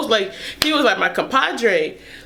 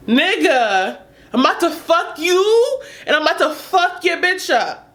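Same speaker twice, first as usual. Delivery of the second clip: angry threat; 6 semitones higher than usual. Retold or imitated. Threatening with knife.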